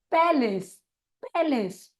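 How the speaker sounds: पैलेस said as "pai-les", first syllable like pai; slow clear पैलेस, pai then les; spelling demo. Shown as a demonstration. Teacher models the word for trainee teachers, clearly. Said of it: "P A ... L A सी ई हो जाएगा".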